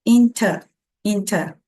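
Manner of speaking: INTER ending on a plain "uh", no R; British "in-tuh" for INTER; no R sound. Shown as a demonstration. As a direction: drop the final R of INTER. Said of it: "sem som de R".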